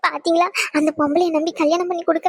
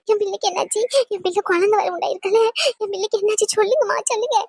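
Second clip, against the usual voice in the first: panicked mother; 2 semitones higher than usual. Acted. Mother hears daughter hospitalised.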